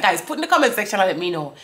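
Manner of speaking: ordinary talk, nothing marked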